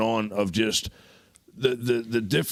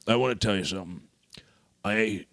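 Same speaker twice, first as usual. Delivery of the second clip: whispered confidential aside; mock secret whisper. Speaking privately to Uncle Jeff on the podcast, whispered. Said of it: "this is between me and you".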